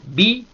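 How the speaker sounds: "Bi" very high and loud; forceful high-pitched "Bi". Shown as a demonstration. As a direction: shoot "Bi" up high. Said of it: "y ahí sube".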